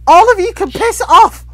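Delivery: shouting at the whole lobby; raging gamer. Real, not acted. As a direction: yell it in gaming rage. Angry outburst at other players.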